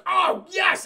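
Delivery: loud, high delighted cry; gleeful croc. Retold or imitated. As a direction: relish it like a hungry croc.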